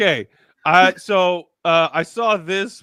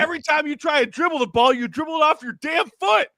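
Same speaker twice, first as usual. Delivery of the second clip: higher pitched, scolding the player; exasperated rant; 9 semitones higher, faster than usual. Real, not acted. Podcast host ranting at a player, exasperated and raised. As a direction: tear into him, fed up.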